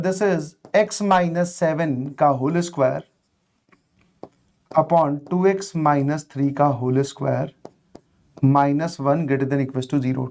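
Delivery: very slow, low dictation.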